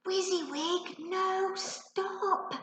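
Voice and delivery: put-on high, urgent boyish plea; desperate call. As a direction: beg him to stop, desperately. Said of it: "Ben called out desperately".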